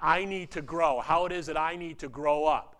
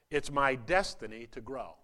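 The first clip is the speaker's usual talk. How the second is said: congregation recital; 2 semitones lower than usual. Shown as a demonstration. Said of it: "Say it with me".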